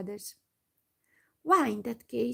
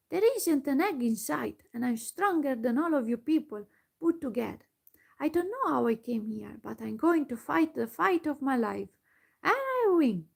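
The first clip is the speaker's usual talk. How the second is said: angry; 3 semitones higher than usual. Acted. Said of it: "he said in an angry voice".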